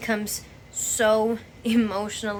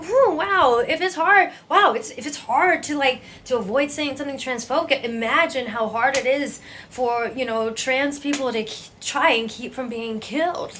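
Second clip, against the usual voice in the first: sarcastic retort; 4 semitones higher, 4 dB louder than usual. Retold or imitated. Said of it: "I'm like".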